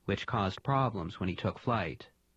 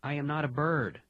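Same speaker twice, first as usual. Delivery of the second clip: higher, scared and hurried; high fearful plea; 5 semitones higher than usual. Acted. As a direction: blurt it out in fear. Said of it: "his eyes squeezed tight in fear".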